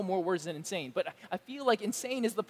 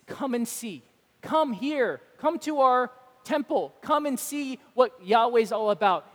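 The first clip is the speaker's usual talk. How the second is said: calling out; 3 semitones higher, 5 dB louder than usual. Retold or imitated.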